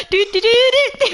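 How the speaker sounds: high playful do-do-do; silly do-do chant. Retold or imitated. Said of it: "you can do what Jester does".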